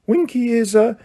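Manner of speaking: high squeaky elf voice; lightly voiced house elf, hushed; Dobby whispering. A narrator's reading. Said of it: "Dobby whispered to Harry".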